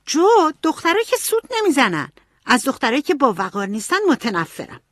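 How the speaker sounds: high, indignant scolding; angry girl. A narrator's reading. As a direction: snap at her sister, offended. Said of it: "ایمی عصبانی شد".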